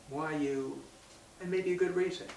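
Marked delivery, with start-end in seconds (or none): 0.1-0.8 subdued, non-accusatory question; nice asking. Shown as a demonstration. Showing a nice way to question someone, non-accusatory. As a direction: ask it nicely, holding back any blame. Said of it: "a nice way of asking a question".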